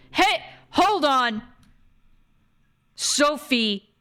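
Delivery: high outburst of disbelief; shocked interruption. Real, not acted. Streamer stopping Sophie after her confession, shocked outburst.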